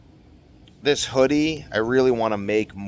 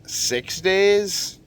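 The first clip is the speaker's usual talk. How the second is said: emphatic; 11 semitones higher than usual. Real, not acted. Emphatic reveal.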